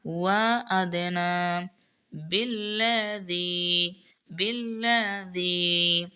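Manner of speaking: slow chanted recitation of each word; تلاوة مجودة بطيئة; Quran recitation. Shown as a demonstration. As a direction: recite each word with measured tajweed stretches. Teacher recites verse word by word.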